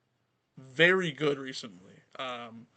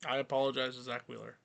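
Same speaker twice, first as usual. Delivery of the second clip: flat, grudging apology; sarcastic; 6 dB quieter, faster than usual. Pretend. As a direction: say sorry without meaning it. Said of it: "That's a little sarcastic".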